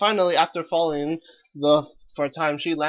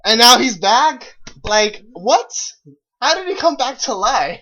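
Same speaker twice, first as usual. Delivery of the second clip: loud, high disbelief; can't believe it; incredulous; 7 semitones higher, 9 dB louder than usual. Real, not acted. Disbelief at resurrection.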